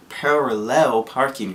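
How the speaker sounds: "parallel parking" said slowly through a laugh, each syllable spelled out; laughing at the word. Real, not acted. To viewers, after tripping on the word, laughing slowly. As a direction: get "parallel parking" out carefully while giggling. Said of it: "Can't say that word today".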